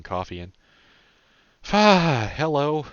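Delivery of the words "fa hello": high, loud startled yelp easing into a hello. A narrator's reading. Boyfriend caught unawares while mixing coffee, startled. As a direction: jolt out a loud, high greeting. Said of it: "not having heard him come up, jumped a little bit".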